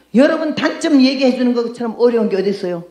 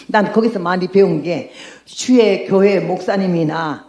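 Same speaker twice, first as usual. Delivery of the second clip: ordinary delivery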